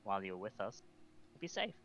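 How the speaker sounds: soft, gentle in-character apology; sighing apology. Acted. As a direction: speak softly, apologise and reassure him. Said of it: "she sighs and she goes".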